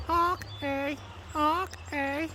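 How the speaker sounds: very high honking goose with a Canadian eh; mock goose call with a Canadian twist. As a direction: honk like a goose asking eh. Imitating Canadian geese.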